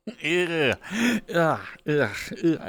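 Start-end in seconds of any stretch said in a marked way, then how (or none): 1.3-2.6 grossed-out groan. Real, not acted. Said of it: "I think I grossed myself out".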